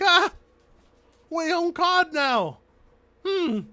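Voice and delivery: mock-smug victory line; smug Microsoft gloat. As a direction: lord it over Sony, drawn out. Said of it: "They're laughing. Like".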